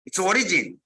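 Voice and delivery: ordinary talk, nothing marked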